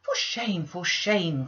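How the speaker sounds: shocked maid scolding; a scandalised lady's maid; scolding cry. Acted. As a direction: cry out in reproach. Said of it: "cried the lady's maid".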